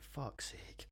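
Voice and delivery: whispered under the breath; muttered swear. Retold or imitated. Annoyed at himself, whispered swear. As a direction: hiss it to yourself in annoyance. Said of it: "and I'm like".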